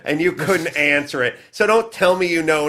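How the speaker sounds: high, incredulous retold scolding; exasperated retort. Host scolding a self-declared expert, mildly exasperated retelling.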